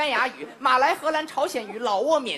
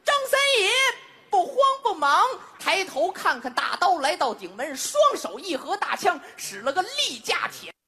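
Chinese storyteller. Shown as a demonstration. Crosstalk comic demonstrating a Three Kingdoms tale, storyteller declamation. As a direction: declaim the battle tale, drawing out key words. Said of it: "在中国用中文是这么说的".

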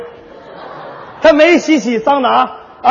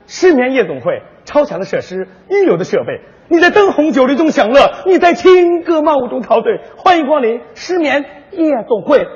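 slick nightclub commercial voice; mock TV ad read. Partner hijacks the story with a mock nightclub ad. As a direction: sell it like a late-night ad. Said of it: "你这广告插的也太多点儿了".

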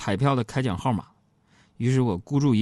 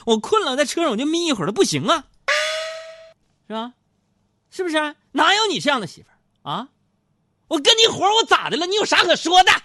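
much higher, louder complaint, pushed fast in places; retold angry outburst; 4 dB louder than usual. Husband scolding his wife for poking him awake, a retold angry rant. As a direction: replay the fed-up husband's rant. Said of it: "我就怒了".

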